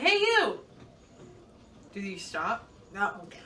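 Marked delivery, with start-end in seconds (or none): 0.0-0.6 acted yell. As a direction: call out as a mild mock yell. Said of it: "I yell at you".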